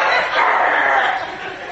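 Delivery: drawn-out mock growl; imitated dog growl. Preacher imitating the dog that defies her, growling. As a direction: growl like a possessed little dog. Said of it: "it growls at me".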